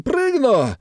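put-on high drunken yell; high boastful drunken cry. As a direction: bellow it out boastfully. Galushkin boasting on.

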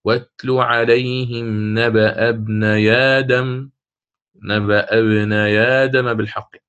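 ابني آدم read as "ibnaya dam", slow chant; naql transfer. Shown as a demonstration. Teacher demonstrating the transfer in a recited verse. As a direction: move the hamza's fatha onto the ya of ابني. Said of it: "هكذا".

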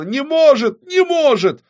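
shrieked, very high gleeful taunt; gloating. Acted. Авадонна taunts the failing witch, gloating shrilly. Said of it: "захохотала Авадонна".

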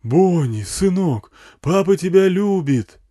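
loud, slow, high fatherly call; drawn-out amplified declaration of love; megaphone yelling. A narrator's reading. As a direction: call to your son over a bullhorn. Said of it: "орал мегафон на всю пустыню".

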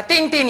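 high ringing "tin, tin"; doorbell imitation. Storyteller's doorbell rings the next day, doorbell imitation. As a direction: ring it like a doorbell.

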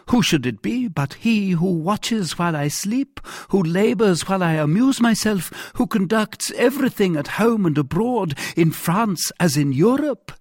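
high-pitched, emphatic monarch; indignant king. Acted. King praising the cardinal to doubting captain, indignant. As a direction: extol the cardinal with rising insistence.

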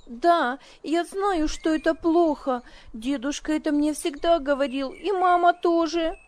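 put-on high, indignant child. A narrator's reading. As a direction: burst out in indignation. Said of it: "в порыве негодования".

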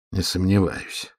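slow words pushed through clenched teeth; through gritted teeth. Acted. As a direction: grit the teeth and squeeze it out. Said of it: "процедил сквозь зубы Олег". (сквозь зубы)

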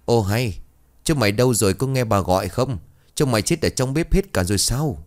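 lightly voiced mistress yelling across the yard; shrill calling out. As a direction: call them out, sharp and ringing. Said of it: "giọng của bà Láng réo rắt vang lên".

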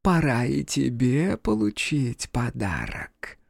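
put-on slow, tender old woman coaxing; a kind but sinister granny voice; gentle grandmother. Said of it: "раздался ласковый голос".

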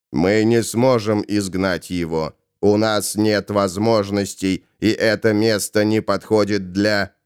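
low, measured explanation; composed low voice; calm Ravenor. Acted. Ravenor reasons, is cut off.

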